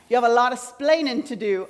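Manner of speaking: put-on weak, half-hearted Cuban accent; a light first try at a Cuban accent, then give up; Ricky Ricardo accent. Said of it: "I just keep hearing Ricky Ricardo's voice".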